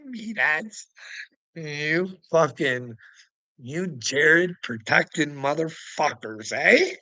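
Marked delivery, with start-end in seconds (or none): none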